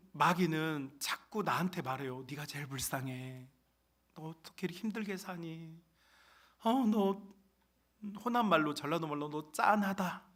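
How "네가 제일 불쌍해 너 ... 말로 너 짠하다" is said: soft, cooing false sympathy; devil's pitying coo. Acted. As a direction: coax like a tempting devil. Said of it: "이렇게 하면서 마귀는요".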